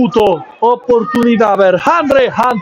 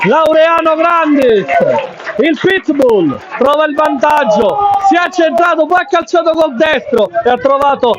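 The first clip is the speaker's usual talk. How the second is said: excited goal recap; 5 semitones higher than usual. Real, not acted. Excited goal recap after score.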